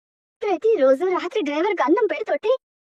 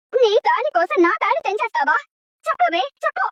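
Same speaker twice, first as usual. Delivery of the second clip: angry demand. Acted. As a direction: force her to answer. Mother demands an answer.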